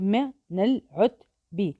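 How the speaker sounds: slow, pulled-apart من العتب; teacher showing how من العتب scans; slow scansion. Shown as a demonstration. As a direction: stretch من العتب syllable by syllable. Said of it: "شوفوا كيف".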